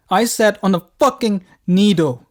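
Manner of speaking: frantic outburst. Acted. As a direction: yell it in hammed-up panic, stretching each word. Repeats it louder to wife.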